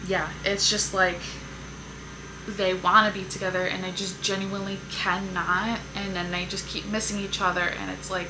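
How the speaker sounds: yelling over leaf blower. Real, not acted. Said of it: "I don't think you guys are gonna be able to hear me".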